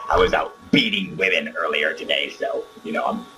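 fake Luke voice. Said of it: "Palpatine, you can drop the charade".

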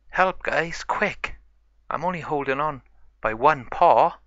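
high-pitched call for help; urgent plea. Acted. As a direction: beg your friends to hurry. Stuck pup begs friends for help.

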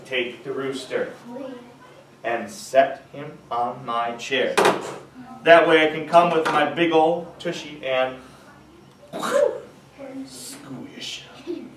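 teeth clenched. Acted. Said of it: "with his teeth clenched together".

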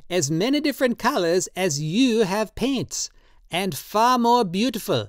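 put-on high, slow, pleading old man's voice; old tattooist Drioli, drunk and pleading. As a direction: coax him tenderly, in wine. Drioli persuades.

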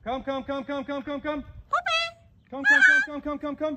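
high, loud repeated recall; high-pitched calling. Real, not acted. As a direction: call the bird in, squeaky and loud. Calling a bird back.

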